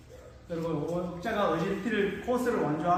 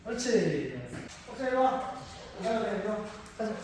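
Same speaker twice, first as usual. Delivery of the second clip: talking to a pig; 3 semitones higher, 3 dB quieter than usual. Real, not acted. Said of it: "그걸 한번 보여드릴게요".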